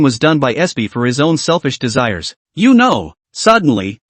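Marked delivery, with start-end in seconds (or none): 2.5-3.1 growled. Acted. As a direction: snarl it out in pain. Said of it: "A I Qian growled".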